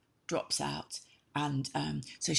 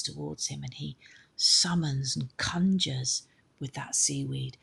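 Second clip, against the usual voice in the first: hushed story narration. A narrator's reading. Teller hushing the voyage to the listeners, almost whispered.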